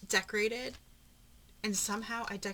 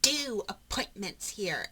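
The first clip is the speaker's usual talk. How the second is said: imitating a rude clerk; 3 semitones higher, 4 dB louder, slower than usual. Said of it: "the guy cops an attitude and says".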